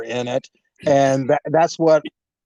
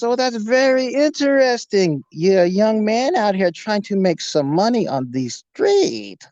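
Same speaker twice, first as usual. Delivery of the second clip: put-on lilting, higher-pitched German accent; 5 semitones higher than usual. German stranger sizing up a young man, creepy German accent. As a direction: play the over-interested German stranger. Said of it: "German accent".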